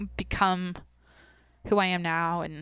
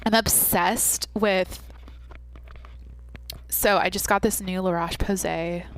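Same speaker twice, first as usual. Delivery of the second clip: put-on Valley Girl voice. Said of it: "put on a Valley Girl voice".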